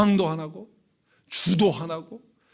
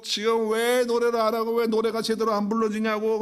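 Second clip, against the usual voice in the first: imitating angry father; 6 semitones higher than usual. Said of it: "열받아가지고".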